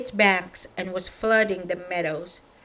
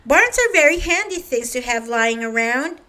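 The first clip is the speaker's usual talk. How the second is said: chuckling; 2 semitones higher, 5 dB louder than usual. Acted. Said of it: "chuckled Mister Strong".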